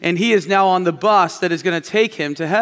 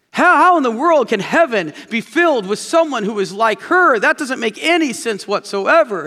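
higher and louder, peaking on her; angry outburst; 5 semitones higher, 4 dB louder than usual. Retold or imitated. Man ranting at Saint Peter at heaven's gate, angry. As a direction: let Peter have it, mock furious. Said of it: "he just lets Saint Peter have it".

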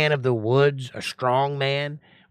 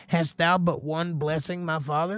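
pleading; 5 semitones higher than usual. Acted. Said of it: "bitter cry".

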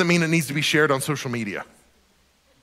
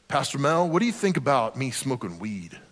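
lightly voiced stoner teen, lower pitch; imitated weed smoker; 3 semitones lower, 4 dB quieter than usual. Teenager asking his youth pastor about weed, mock stoner voice. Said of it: "do his voice like that".

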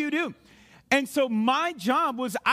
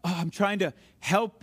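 acted exasperation, pitched lower; frustrated; 4 semitones lower than usual. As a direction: plead with mild frustration. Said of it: "you've been frustrated when you're like".

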